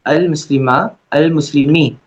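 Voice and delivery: अल मुस्लिमा, अल मुस्लिमी read out clearly as Arabic, with अल kept short; Arabic recitation. Shown as a demonstration. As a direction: sound out अल मुस्लिमी syllable by syllable the way a teacher drills it. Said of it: "ये हो जाएगा अल मुस्लिमू".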